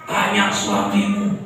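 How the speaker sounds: taunting message. Retold or imitated. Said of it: "Istri saya sampai di S M S".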